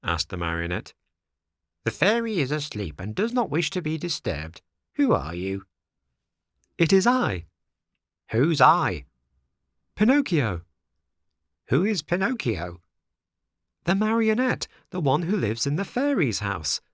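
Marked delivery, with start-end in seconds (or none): 1.8-5.7 a drowsy creature from the window; snail voice. A narrator's reading. 6.8-16.8 put-on high, louder puppet boy; eager wooden boy calling up; Pinocchio voice. A narrator's reading.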